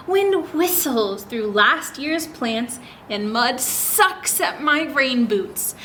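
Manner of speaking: slow storybook reading; reading to children. Acted. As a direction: linger on each image for little listeners. Reads picture book aloud.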